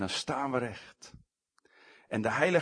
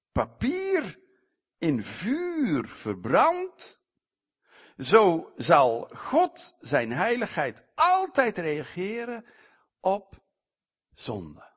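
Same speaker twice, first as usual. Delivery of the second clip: fervent preaching; 5 semitones higher, 5 dB louder, slower than usual. Real, not acted. Preaching image, slow and intense.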